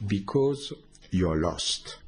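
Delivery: slow, a hint of a solemn master voice; master's voice. Teller quoting the dead master's answer, slow and solemn. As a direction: lightly voice the dead master, slowly. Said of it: "he said".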